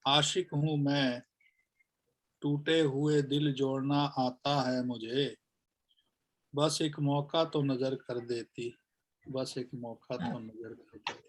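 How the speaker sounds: measured shayari, softening at the end; poem recitation. Acted. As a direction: recite in phrases, let the repeat fade. (ठहर-ठहर कर शायरी पढ़ना)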